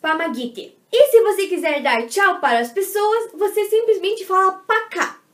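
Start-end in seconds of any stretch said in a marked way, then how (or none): 0.0-0.7 помогите said slowly and clearly; slow teaching model. Shown as a demonstration. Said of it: "você vai falar помогите". (помогите devagar e bem claro)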